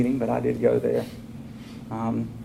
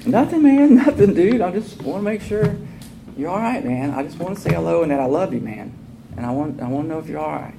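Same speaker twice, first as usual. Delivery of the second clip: gentle friend; 5 semitones higher than usual. Retold or imitated. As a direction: play the buddy saying he loves you. Voicing friend Barry, affectionate.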